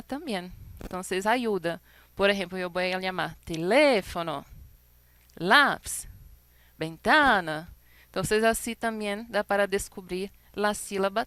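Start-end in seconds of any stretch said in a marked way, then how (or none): 3.4-7.7 half-shouted "ventana" with a hit on "ta"; shouting the word. Shown as a demonstration. Teacher calls out "teléfono, lápiz, ventana" to show the stressed syllable. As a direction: call out "lápiz" louder to find the stressed syllable. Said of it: "como se fuera gritando el nombre".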